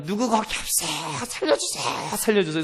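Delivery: high, held-back imitation of distant shouting; mock cry for help. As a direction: call for help in a stretched, softened stage yell. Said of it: "막 소리를 쳤습니다".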